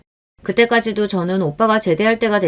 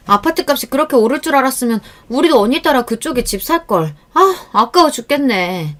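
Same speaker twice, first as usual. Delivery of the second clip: higher, whiny envious sighing; envious regret; 5 semitones higher, 3 dB louder than usual. Acted. Aunt whining to her sister about apartment prices, envious. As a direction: moan about the missed chance. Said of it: "얼마나 배 아파했는지".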